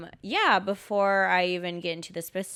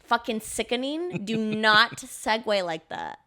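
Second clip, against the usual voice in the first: higher, slow, emphatic scolding with a laugh; mock outrage; 3 semitones higher, 3 dB louder, slower than usual. Scolding the co-host for a clumsy segue, mock outrage. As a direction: pound each word in playful disgust.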